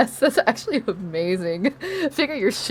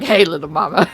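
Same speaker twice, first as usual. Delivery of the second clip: Johnny Bravo; 4 semitones lower than usual. Retold or imitated. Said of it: "Johnny Bravo energy".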